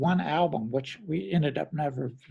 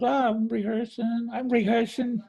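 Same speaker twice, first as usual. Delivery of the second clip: higher, lightly put-on New Jersey accent; 8 semitones higher than usual. Drummer imitating his friend Clem's New Jersey accent on the phone. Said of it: "New Jersey accent".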